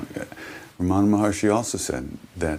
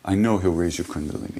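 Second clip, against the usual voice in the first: high, innocent playing-dumb guru; high sing-song guru feigning innocence; playful guru voice; 11 semitones higher than usual. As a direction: feign sweet ignorance, much higher. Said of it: "He said".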